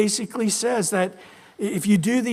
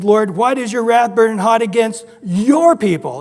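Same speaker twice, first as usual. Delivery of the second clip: pleading Moses; 3 semitones higher, 7 dB louder than usual. Retold or imitated. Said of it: "Moses pleaded with the Lord".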